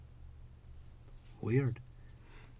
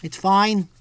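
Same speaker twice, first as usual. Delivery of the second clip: loud, raised New York mobster lecture; New York mob voice; 5 semitones higher, 8 dB louder than usual. Shown as a demonstration. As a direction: hold forth like a New York wiseguy. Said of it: "who knows how to talk like this".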